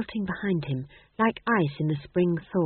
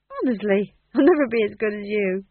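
admiring amateur actor; 3 semitones higher, 3 dB louder than usual. A narrator's reading.

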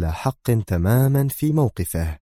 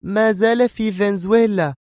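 much higher, resolute statement; firm, high woman's voice; 13 semitones higher than usual. A narrator's reading. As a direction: state it with total certainty. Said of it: "تجيب في حزم شديد".

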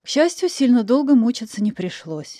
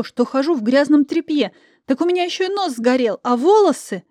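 hysterical outburst; 3 semitones higher than usual. Acted. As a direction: pour out every grievance.

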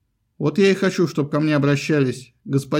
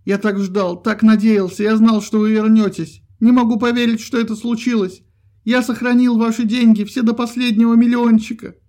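high, louder, overjoyed babble; tearful gushing; 6 semitones higher, 5 dB louder than usual. A narrator's reading. Krabs weeping on Spruts' neck, high excited gushing. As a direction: pour it all out, near tears.

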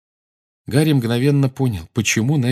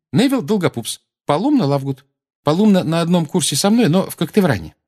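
put-on brisk girl; 8 semitones higher, 3 dB louder than usual. Ginny introduces, voiced high.

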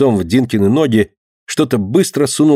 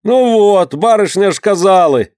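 grumbling crowd; 6 semitones higher than usual. A narrator's reading. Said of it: "нехотя расходясь, ворчала толпа".

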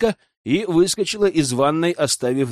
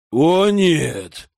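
stifled cry; 2 semitones higher, 4 dB louder than usual. Acted. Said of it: "услышал я сдавленный крик".

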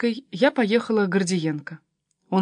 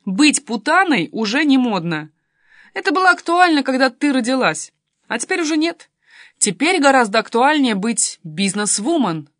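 put-on higher, louder teen explaining; lightly voiced pert daughter; 5 semitones higher, 6 dB louder than usual. A narrator's reading. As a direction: set your mum straight pertly. Voices the daughter lecturing mother. (бойкая дочка, поучая маму)

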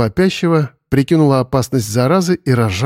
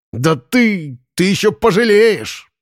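slow menacing threat; 7 semitones higher, slower than usual. A narrator's reading. Thrown out, Boris threatens.

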